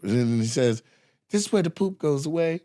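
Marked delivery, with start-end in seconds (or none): 1.3-2.6 lightly raised comic voice; a hint of a high joke-telling voice; imitated stand-up delivery. Comic setting up the poop's exit, lightly imitated high voice.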